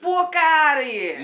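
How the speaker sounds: high, loud, drawn-out scoff of disbelief. Real, not acted. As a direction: dismiss it loudly and incredulously, stretching the words. Disbelief at the London comparison.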